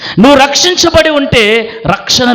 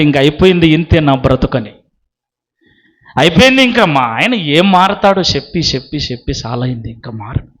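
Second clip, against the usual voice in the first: low, fading voice of someone giving up; resigned; 5 semitones lower than usual. Acted. Voicing believers who gave up praying. (నిరాశతో, నీరసంగా తగ్గిపోయే స్వరం)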